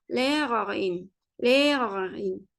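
"lerarin" with long e and added in; German pronunciation demo. Shown as a demonstration. Teacher makes the word feminine, "lerarin" ending in in. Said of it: "mesela buraya in".

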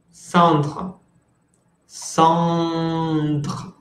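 "Cendres" said with the final R clearly sounded; teacher drills the R at the end of "Cendres". Shown as a demonstration. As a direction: say "Cendres" and let the final R be heard. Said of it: "la R final".

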